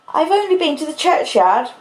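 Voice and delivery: put-on high-pitched, tearful child's protest; crying. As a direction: plead as a child who has been crying. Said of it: "crying and rubbing myself".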